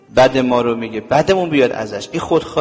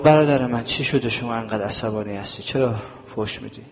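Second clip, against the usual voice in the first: softer, gentle questions to an angry man; gentle calming voice; 3 semitones lower, 4 dB quieter than usual. Acted. The Imam calmly reassures the man who insulted him, gentle and soft. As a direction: soothe him quietly, offering help.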